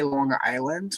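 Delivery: New York accent. Shown as a demonstration. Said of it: "without it being Long Island".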